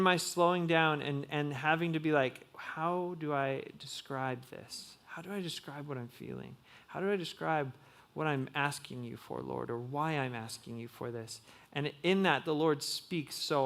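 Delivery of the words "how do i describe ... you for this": searching prayer. Retold or imitated. Retold journaling prayer to God.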